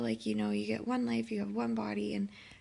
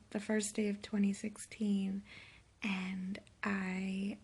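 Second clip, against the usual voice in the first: hungover. Real, not acted. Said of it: "I don't think I've been this hungover".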